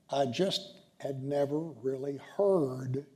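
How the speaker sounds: the word "heard" leaned on, said slowly; stress on heard. Retold or imitated. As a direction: land the weight on "heard" at the end. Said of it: "emphasis on the word heard".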